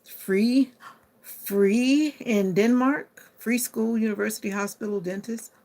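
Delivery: high, loud, stretched-out free; amazed excitement. Real, not acted. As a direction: savor each word in delighted disbelief.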